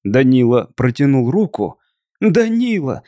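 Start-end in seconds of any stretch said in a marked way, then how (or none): 2.2-3.0 high cry of his name; wife begging her husband not to shoot, despairing cry. A narrator's reading. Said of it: "закричала в отчаянии".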